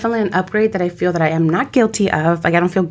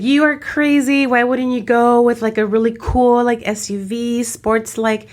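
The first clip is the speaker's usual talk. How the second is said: mock scolding self; 5 semitones higher than usual. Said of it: "And I was like".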